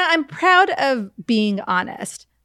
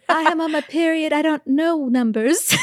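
mock ditzy excuse; 6 semitones higher than usual.

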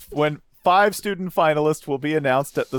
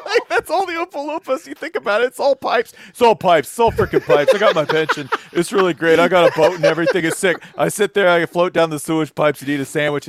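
Jersey worker voice; 2 semitones higher, 3 dB louder than usual. Pretend. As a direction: brag like a Jersey pipe worker. Voicing an Oompa Loompa.

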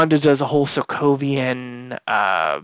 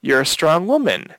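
higher, lightly imitated sitcom voice; Geraldine's sitcom twang; 6 semitones higher than usual. Geraldine backtracking to Wanda, in a light sitcom twang. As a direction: lightly mimic a sitcom character covering up. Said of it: "snaps back into her sitcom-y twang".

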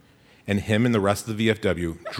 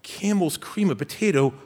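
put-on excited kid brother; 4 semitones higher than usual. Brother opens a case of soup at Christmas, overjoyed. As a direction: squeal it like the best gift ever.

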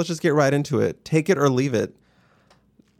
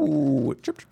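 bird chirp. Pretend. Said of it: "why that required a chirp".

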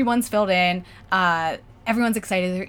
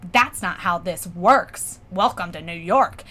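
slow, deliberate put-down; unyielding New York woman; 4 semitones lower, slower than usual. Retold or imitated. Woman refusing to give up seats, slow firm put-down. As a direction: imitate her refusing, slowly and firmly. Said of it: "the woman who's closest to me looks at me and goes".

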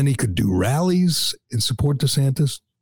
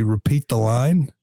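Biden misreading; slower than usual. Retold or imitated. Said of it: "that you would say".

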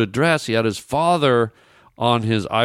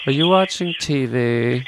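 whisper. Acted. Prank caller whispering into phone.

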